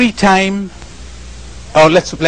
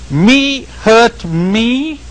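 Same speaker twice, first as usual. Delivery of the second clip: slow, drawn-out rising question; can't believe it was me; mock incredulous self-question; puzzled disbelief; 5 semitones higher, much slower than usual.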